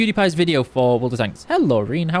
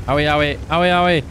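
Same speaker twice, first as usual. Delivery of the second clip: mock pain; faster than usual. Rising owies, higher and louder.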